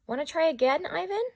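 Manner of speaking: high, lilting encouraging question; Maya, kind keeper. Acted. Keeper Maya coaxing Ivan toward the door, high and encouraging. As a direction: coax him gently upward. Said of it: "Maya asks".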